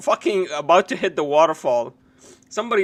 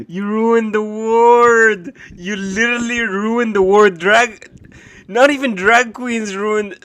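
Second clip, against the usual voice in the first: laughing outrage; 3 semitones higher, 8 dB louder than usual. Real, not acted.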